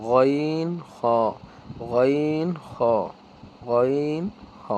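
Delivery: গইন and খ from the end of the throat; Arabic letter demo. Shown as a demonstration. Teacher demonstrating the last throat letters, articulated. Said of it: "কণ্ঠনালীর শেষ হতে উচ্চারিত হয়".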